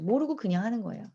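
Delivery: usual speaking voice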